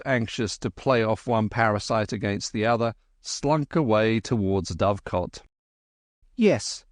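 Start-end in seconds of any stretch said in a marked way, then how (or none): 6.4-6.9 measured scorn. Acted. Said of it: "said Kim with measured scorn".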